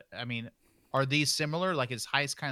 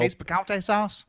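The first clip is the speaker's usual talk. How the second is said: salsa commercial voice; 6 semitones higher, 6 dB louder, slower than usual. Retold or imitated. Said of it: "remember those commercials".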